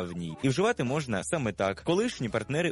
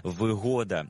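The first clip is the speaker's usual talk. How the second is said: вигода with ГО stressed, falling after it; stress on second syllable; 3 semitones lower, slower than usual. Shown as a demonstration. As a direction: lean on the middle of вигода, ГО. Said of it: "із наголосом на другому складі".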